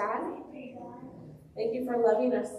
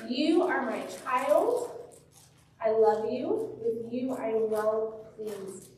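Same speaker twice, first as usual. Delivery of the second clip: voice of God; much slower than usual. Retold or imitated. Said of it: "from God saying".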